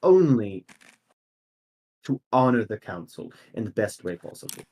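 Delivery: soft, measured council newcomer, lightly voiced; understated formal deference; Leah Lacrosse. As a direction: assure the council quietly, with long pauses. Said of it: "Leah Lacrosse's voice goes".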